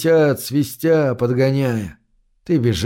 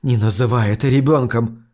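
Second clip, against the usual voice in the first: hoarse; 2 semitones lower than usual. Acted. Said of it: "хриплю я".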